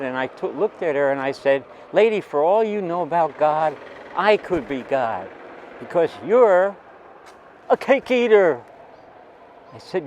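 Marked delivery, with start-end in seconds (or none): 1.9-8.6 higher, louder defiant comeback; loud retort. Retold or imitated. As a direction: fire it back at her. Retorting to the yelling aunt.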